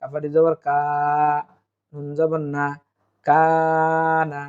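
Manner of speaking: very drawn-out, melodic recitation; slow recitation. Shown as a demonstration. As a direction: chant with long held vowels. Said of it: "অক্ফ হইলে".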